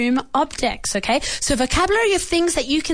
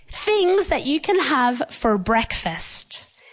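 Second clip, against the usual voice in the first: slow and clear; slower than usual. Shown as a demonstration. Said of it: "Do you understand?".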